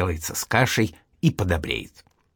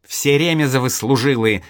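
a desperate mild shout; desperate cry; 3 semitones higher, 3 dB louder than usual. Acted. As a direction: cry out the family's honour in despair. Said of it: "отчаянно крикнул Петька". (отчаянно выкрикивая)

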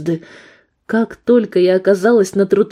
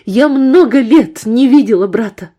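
higher louder cry; desperate shout; 4 semitones higher, 6 dB louder than usual. Acted. Woman crying out to the gunman about her brother. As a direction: plead loudly.

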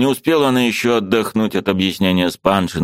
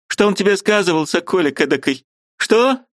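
put-on high, indignant old woman's voice; angry old aunt; 13 semitones higher than usual. Aunt bursting in to scold her niece, high and indignant.

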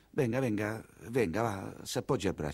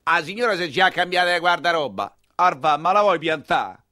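mocking shout; 5 dB louder than usual. Heckler shouting mockery.

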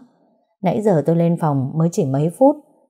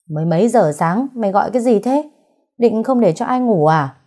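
higher, sharp annoyed scolding woken at night; scolding shout; 4 semitones higher than usual. Acted. Mother-in-law scolds the wife for waking her, annoyed shout. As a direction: snap at her for the noise. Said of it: "Mẹ chồng tôi quát ra".

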